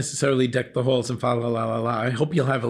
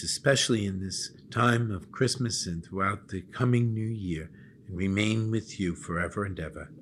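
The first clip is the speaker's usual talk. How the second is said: prayer. Acted. Bishop gives the blessing.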